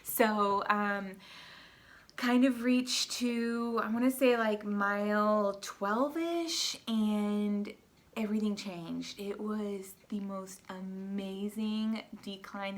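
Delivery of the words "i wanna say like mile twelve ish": ordinary talk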